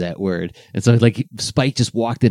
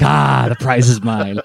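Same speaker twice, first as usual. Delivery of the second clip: mock gloating sibling; 3 dB louder than usual. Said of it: "they're like".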